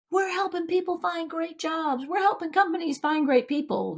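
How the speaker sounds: bright, high, earnest mission talk; a lightly voiced proud company; idealistic company voice. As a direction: sound proud of helping people.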